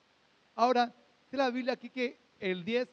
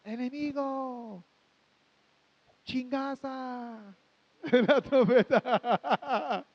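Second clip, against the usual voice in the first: shrill squeaky voice; 4 semitones higher, much slower than usual. Pretend. Mimicking a shrill trumpet voice.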